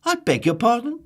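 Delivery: very high, loud astonished voice; startled, genteel surprise; high, loud polite shock; taken-aback Mister Happy. Acted.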